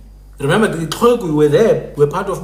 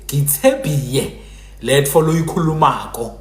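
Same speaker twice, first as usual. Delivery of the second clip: Muphuti pronunciation. Shown as a demonstration. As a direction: demonstrate Phuti speech, y replacing l. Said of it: "A Muphuti would say".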